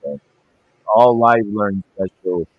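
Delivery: garbled, bubbly bad connection; underwater. Real, not acted. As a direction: sound like you're underwater. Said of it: "not sound like you're underwater".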